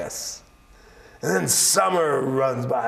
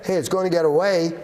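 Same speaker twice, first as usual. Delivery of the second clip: fast, raised, excited warning; urgent alarm; 4 semitones higher, 5 dB louder, much faster than usual. Acted. Coyote tricking Old Man Winter, urgent and excited. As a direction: hurry them along, louder and higher.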